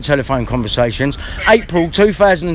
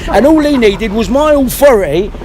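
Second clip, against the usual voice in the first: heated rant; 5 semitones higher than usual. Real, not acted. Angry rant at the police station.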